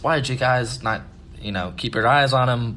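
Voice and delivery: mildly heated imitation of a scolding mom; retold yelling. Mom to the babysitters, retold yelling. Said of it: "she starts yelling at us".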